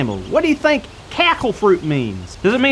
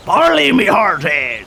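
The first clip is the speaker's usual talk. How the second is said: slow, drawn-out pirate growl; big slow pirate voice; 3 semitones lower, 3 dB louder, slower than usual. Shown as a demonstration. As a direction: growl it long and hearty. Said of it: "lower your voice to, uh, like a, like a growl".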